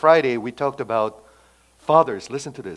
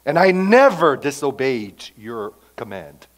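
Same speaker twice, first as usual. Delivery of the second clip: resentful protest; 8 dB louder than usual. Acted. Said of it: "What do you hear? Resentment".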